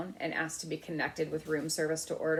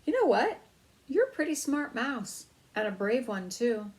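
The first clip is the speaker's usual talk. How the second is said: put-on much higher, louder admiring boy; amazed boy; 6 semitones higher, 5 dB louder than usual. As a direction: gush with admiration. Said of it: "Keith was amazed".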